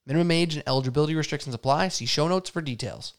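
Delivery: fast legal fine print; rapid disclaimer. Acted. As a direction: rattle off the disclaimer quickly.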